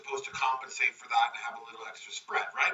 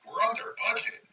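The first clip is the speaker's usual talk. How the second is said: higher disbelieving question; incredulous echo; 8 semitones higher than usual. Retold or imitated. Pete echoing the builder's claim, higher and doubtful. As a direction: repeat it as if unsure.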